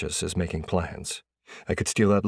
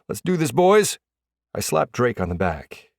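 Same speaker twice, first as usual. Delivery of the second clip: rallying teammates; 8 semitones higher, 5 dB louder than usual. A narrator's reading. Player rallying his teammates.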